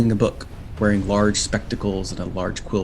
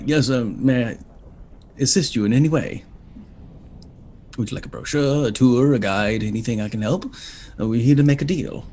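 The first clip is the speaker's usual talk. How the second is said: flustered imp professor; 3 semitones higher than usual. Acted. Imp professor introducing himself to travellers, flustered and fussy. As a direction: trip over the words like a nervous bureaucrat. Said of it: "devilish imp".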